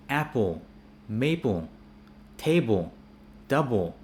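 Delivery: apple, maple, table, double ending in dark 'ol'; word-by-word demo, double as 'dub-ol'. Shown as a demonstration. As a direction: round each final LE toward O, as in table. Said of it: "we read them as O".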